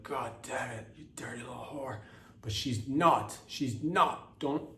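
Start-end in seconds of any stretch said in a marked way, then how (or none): 0.0-2.0 softer, quick lustful mutter under the breath; mock lustful mutter. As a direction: mutter it like a leering man hearing her accent. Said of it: "you're like".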